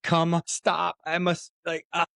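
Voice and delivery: high, frantic mock cry; retold desperate plea. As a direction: imitate someone pleading through closing doors. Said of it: "banging on the windows and saying".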